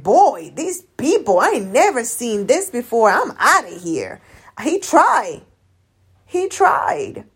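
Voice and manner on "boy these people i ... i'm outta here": voicing Jesus. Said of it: "he was like".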